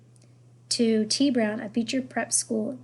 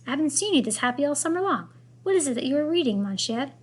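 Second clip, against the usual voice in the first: French grandmother; 4 semitones higher than usual. Acted. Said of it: "thick French accent".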